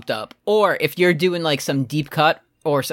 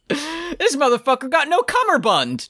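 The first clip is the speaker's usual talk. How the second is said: haughty aristocrat voice; 11 semitones higher than usual. Acted. Scorning a poorly dressed passenger.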